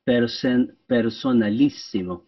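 "Person-, personalissimo" broken up syllable by syllable; imitating Saint Josemaria chopping "personalissimo" apart; syllables chopped for emphasis. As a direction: chop "personalissimo" into separate beats. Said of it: "chopping up the words for emphasis".

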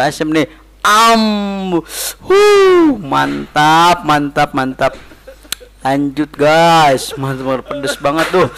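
eating between words; talking while chewing. Real, not acted. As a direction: mouth partly full. Seen 0: Bite taken at -3; mouth closed, cheeks working during the words.

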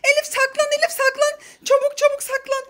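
high, pressing hide-now plea; urgent urging. Acted. Mother rushing Elif into hiding, urgent and high. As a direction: hurry her into hiding, voice lifted.

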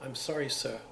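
imitating a Cockney apology; retold line with a touch of Cockney; lightly put-on Cockney voice; broad Cockney accent. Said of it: "in a broad Cockney accent".

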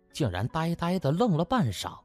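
usual speaking voice

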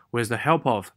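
words run together as one chunk; linked phrase. Shown as a demonstration. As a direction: join it up, no gaps. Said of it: "这也是一个短语要连读起来".

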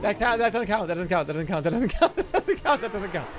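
giggling through the words; laughing protest. Real, not acted.

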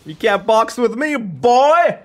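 high, loud taunting yell; gloating shout. Pretend. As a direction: holler it, blasting the last word.

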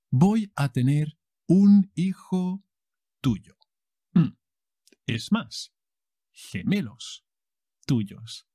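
high, loud shock announcement; soap surprise reveal. Acted. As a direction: drop the bombshell.

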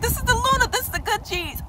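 high, thrilled naming of the products; excited realization. Retold or imitated. Telling viewers what she thought, high and thrilled. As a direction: squeal it like a discovery. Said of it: "I was like".

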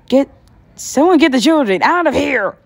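put-on panicked shout to clear the children out. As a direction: yell for someone to save the kids. Panic in lab attack.

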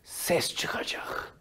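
slow, soft whispered rule; slow whisper of the motto; whispered slogan. Shown as a demonstration. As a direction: hush it like a secret to remember. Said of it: "Neymiş slogan?".

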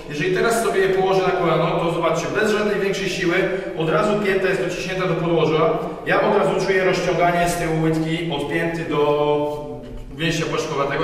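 usual speaking voice

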